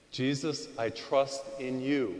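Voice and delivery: prayerful demo. Shown as a demonstration. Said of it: "Say that".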